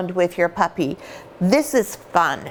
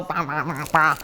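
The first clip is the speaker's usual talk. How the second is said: puppy chomping; 4 semitones lower, 4 dB quieter than usual. Shown as a demonstration. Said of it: "you wanna go".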